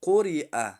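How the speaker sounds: قرئ with a thick, heavy ق; heavy Qaf. Shown as a demonstration. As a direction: make the ق in قرئ full and heavy.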